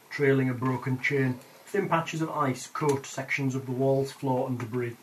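game master reading the room; scene narration. Acted. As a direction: describe the room like boxed text. GM reads the room description.

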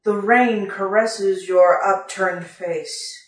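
slow, lingering storybook reading; story narration. A narrator's reading. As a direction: read it like a romantic tale. Reads the story paragraph aloud.

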